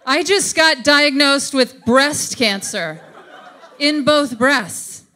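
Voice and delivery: slow, laughing through the words; half-laughing, disbelieving reply; slowly laughing out the comeback; laughing retort. Retold or imitated. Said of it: "I was just like".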